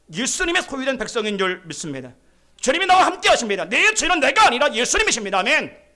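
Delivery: building to a loud, high declaration; full-force preaching. Real, not acted. Preacher affirming Jesus as master to the congregation, full-force preaching. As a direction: proclaim it forcefully, landing on a loud amen.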